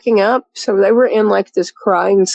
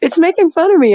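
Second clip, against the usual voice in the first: high-pitched retold laugh-cry wail; mock laugh-crying; 9 semitones higher than usual. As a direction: imitate a friend half laughing, half crying. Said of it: "laugh crying".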